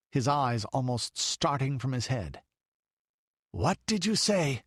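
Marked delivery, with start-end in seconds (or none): 3.5-4.6 higher, panting, frightened; panting demand. A narrator's reading. The count glaring at the child, panting demand. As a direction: gasp it out in dread. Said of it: "he panted".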